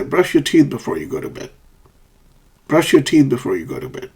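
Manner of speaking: a modelled command settling down on "bed"; falling command intonation. Shown as a demonstration. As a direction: lift on "teeth", then fall through to "bed". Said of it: "falling intonation".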